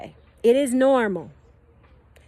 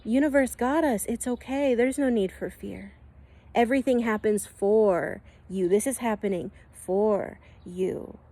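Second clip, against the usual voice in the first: calm higher self. Pretend. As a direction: reassure a panicking friend gently. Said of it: "your God self ... is gonna be like".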